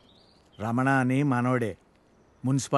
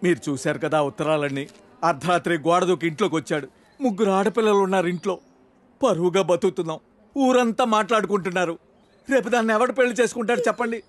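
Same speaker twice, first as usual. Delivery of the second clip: plea climbing steadily higher in pitch; aggrieved pleading; 4 semitones higher than usual. Acted. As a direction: appeal to the elders, rising and quickening at the end. Parent pleads over family's lost honour.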